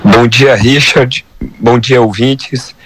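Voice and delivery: hoarse from laryngitis. Real, not acted. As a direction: speak through a hoarse, sore throat. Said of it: "Peço perdão pela voz rouca".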